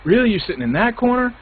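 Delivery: high, indignant whine at the other player; mock outraged whining; whiny complaint. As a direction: whine it like a sore loser. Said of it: "I'm a whiner".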